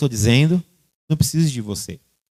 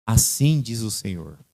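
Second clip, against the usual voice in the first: solemn prophet; 3 semitones lower, 6 dB quieter than usual. Retold or imitated. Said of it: "sempre diz assim".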